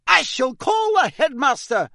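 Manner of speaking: high, loud, outraged warning; stern threat at full pitch; shouted threat. A narrator's reading. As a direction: shout it as an exasperated teacher. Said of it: "shouted Professor McGonagall".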